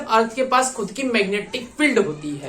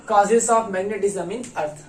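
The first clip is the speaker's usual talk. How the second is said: slow read-out; 3 semitones lower, much slower than usual. Shown as a demonstration. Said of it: "क्या लिख रखा है?".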